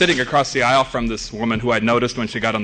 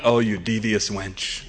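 sly admiration; 2 semitones lower, 4 dB quieter, slower than usual. Retold or imitated. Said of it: "And I thought".

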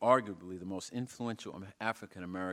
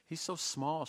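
declaring; 7 semitones higher than usual. Acted. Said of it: "she declared".

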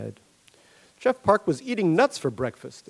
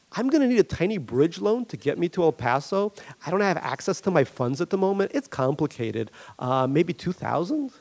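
a lightly raised, wheedling Barry asking for money; Barry's voice; 5 semitones higher than usual. Acted. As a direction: play Barry sheepishly fishing for a loan. Barry asks Jeff for loan.

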